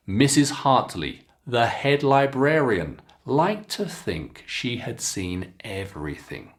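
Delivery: clear, expressive teacher read-aloud; careful storybook reading for students; model reading aloud. Shown as a demonstration. Teacher reads model passage again.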